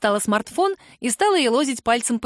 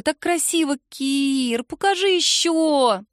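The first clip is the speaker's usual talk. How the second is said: put-on higher, slow pleading kid; pleading girl; 5 semitones higher, slower than usual. A narrator's reading. Girl begging Kira to show the tattoo, high. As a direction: coax her to show more.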